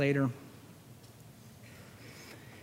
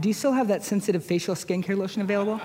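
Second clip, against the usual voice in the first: a light higher quick voice asking about lotion; quick sheepish question, a touch higher; mock customer on phone; 4 semitones higher, much faster than usual. Caller asking the representative about skincare lotion, quick and a touch higher. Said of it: "talk to a customer representative".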